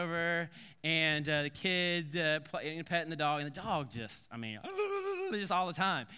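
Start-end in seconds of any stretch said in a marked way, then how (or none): 4.6-5.3 high burbling blubber noise; imitated dog noise. Preacher showing the dog all the time, rapid high burbling.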